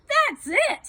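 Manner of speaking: high, loud cry of giving up; exhausted outcry. A narrator's reading. Tired boy giving up on the climb, crying out. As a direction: cry out, fed up. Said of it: "he cried".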